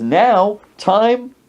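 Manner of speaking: lightly hammed-up announcer; imitating party announcer. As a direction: call it out like a proud host. Host announces the party's final part.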